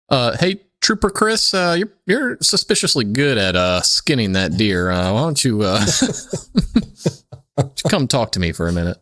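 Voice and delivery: a pretend trooper grilling a suspect, half-laughing; mock cop questioning. Cop questioning suspicious pyro kid.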